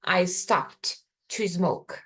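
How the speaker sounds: slow model sentence. Shown as a demonstration. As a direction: contrast it, slowly.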